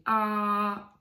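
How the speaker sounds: gap between sounds. Shown as a demonstration. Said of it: "I'll leave a gap".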